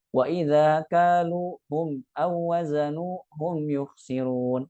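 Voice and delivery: "kaluhum" split as kalu hum, slow; wrong split. Shown as a demonstration. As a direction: slowly break "kaluhum aw wazanuhum" apart. (dibaca terpisah, salah)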